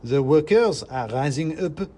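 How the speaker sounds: high, loud, slow squeaky speech; a tiny orator on the barricade; proclaiming mouse. Acted.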